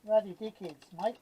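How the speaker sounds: Ruddy dickheads said out loud and firm. Real, not acted. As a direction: announce Ruddy dickheads to the room. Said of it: "that's what I say".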